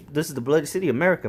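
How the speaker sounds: ordinary talk, nothing marked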